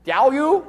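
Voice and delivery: Diaoyu said as dyow-yoo, lightly rising; tentative teacher's try at Diaoyu; Chinese pronunciation. Shown as a demonstration. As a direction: offer Diaoyu carefully, a touch unsure. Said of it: "it's actually pronounced".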